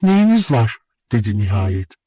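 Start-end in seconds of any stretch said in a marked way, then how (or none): 0.0-0.8 high, startled question; astonished question. A narrator's reading. Nastenka watching him stand up, astonished. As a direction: ask it in raised astonishment. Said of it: "şaşkınlıkla bana bakmaya başladı".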